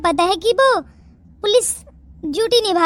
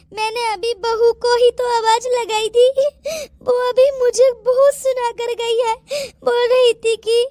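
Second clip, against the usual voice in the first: mild acted sobbing; tearful complaint. Mother-in-law complaining to her sister about daughter-in-law, tearfully. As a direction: complain with sniffles between phrases. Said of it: "आप क्यों रो रही हैं".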